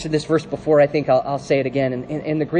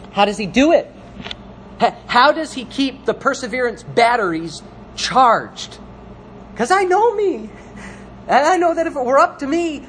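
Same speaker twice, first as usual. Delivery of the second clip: raised, punchy pulpit questioning; animated, higher-pitched preacher delivery; impassioned preaching; 7 semitones higher than usual. Real, not acted. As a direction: press the question on the congregation. Preacher drives home a question.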